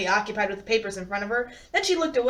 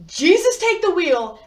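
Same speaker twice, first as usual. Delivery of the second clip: mock panic cry; 6 semitones higher, 6 dB louder than usual. Comic panic exclamation.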